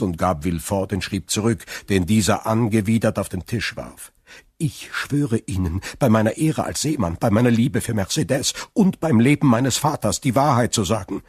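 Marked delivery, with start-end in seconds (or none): 4.6-11.2 higher, emphatic sailor's oath; earnest Dantès swearing. Acted. Accused sailor swears truth to prosecutor, earnest. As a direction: swear it with rising force.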